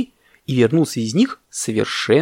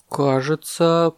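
slow, higher-voiced little elephant; elephant calf recalling; 5 semitones higher, much slower than usual. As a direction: draw it out as if remembering. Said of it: "припомнил слонёнок".

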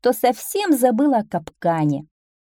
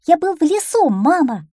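high, loud little-one voice; young duckling, eager; 9 semitones higher, 6 dB louder than usual. A narrator's reading. Duckling answering his mother from afar, high eager call.

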